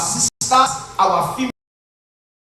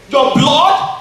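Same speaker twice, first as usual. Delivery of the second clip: loud, high mock-outraged question; imitated scandalised mother; 7 semitones higher, 9 dB louder than usual. Mother rebuking her son about his brother, imitated outrage. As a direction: throw it back like an appalled mum. Mother's shocked retort, acted out.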